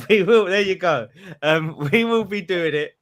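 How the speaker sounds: put-on Geordie accent through laughter, fading out; laughing mock Geordie fading away. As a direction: let the Geordie slip as you laugh. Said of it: "it's my Geordie accent".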